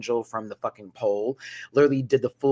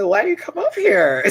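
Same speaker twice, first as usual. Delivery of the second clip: loud, higher sassy demand; sassy challenge; 9 semitones higher, 8 dB louder than usual. Retold or imitated. Confronting the stripper at the club, loud sassy demand. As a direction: call him out with attitude.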